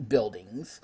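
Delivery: whispering the last word; whispered. Real, not acted. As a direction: drop to a whisper. Whispered ending.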